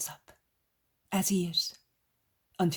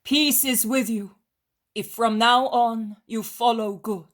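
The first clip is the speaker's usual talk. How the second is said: raised, loud blessing with a smile; smiling reply; 6 semitones higher, 10 dB louder than usual. A narrator's reading. Jesus answers the crowd's blessing, smiling reply. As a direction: proclaim it kindly to the crowd. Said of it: "Jesus, smiling, replies".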